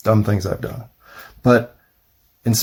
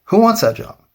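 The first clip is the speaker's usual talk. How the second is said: incredulous question; 10 semitones higher than usual. Real, not acted. Rhetorical repeat, pitched way up.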